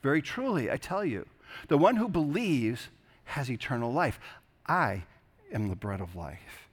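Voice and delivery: measured, reverent reading of the gospel; scripture reading. Acted. Pastor reading John six to the congregation, reverent and measured. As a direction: read the passage to the congregation with weight. Reads the gospel passage aloud.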